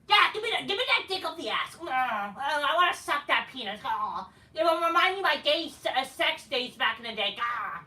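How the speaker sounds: hammed-up, high-pitched eager moaning; mock lustful begging. Wrestler begging rival for sex, mock ecstatic voice. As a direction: start loud and high, sink into exaggerated moans. Lewd parody of the pleading wrestler.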